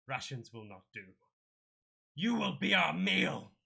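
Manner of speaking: slow, booming beast voice building to a roar; a monster promising to eat them, rising loud; slow menacing creature, ending in a loud high roar; monster threat. Acted. Manticore declares party is food.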